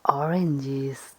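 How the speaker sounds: ordinary delivery, nothing marked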